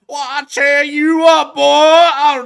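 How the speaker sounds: high, loud, very slow put-on critter voice; big booming cartoon creature voice; talking animal voice. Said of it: "It's going".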